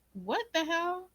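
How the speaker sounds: high startled what the hell; sudden high disbelief; shocked. Retold or imitated. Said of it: "I was like".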